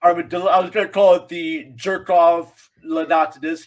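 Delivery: lightly mocking art-festival pomp; pompous Salvador Dali. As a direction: play the self-important painter pitching his work. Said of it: "Salvador Dali at a pompous".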